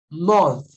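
"Month" said alone, ending in a th sound; pronunciation demo. Shown as a demonstration. Teacher reminding students of the word for mês, careful demo. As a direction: model "Month" carefully, tongue-tip th at the end. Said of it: "Como é que eu falo mês em inglês?".

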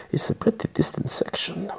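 real whisper, mumbled to self; whispered aside. Real, not acted. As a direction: whisper it to yourself while flipping pages. Whispered aside while turning pages.

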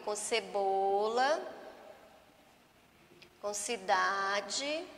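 "cebola", "cidade", "cinema", "cedo" each said slowly, soft c clear; slow dictation reading. Shown as a demonstration. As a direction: read the list slowly to the class. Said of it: "Aqui nós vamos ficar com o quê?". (leitura lenta, destacando o som de "ce" e "ci")

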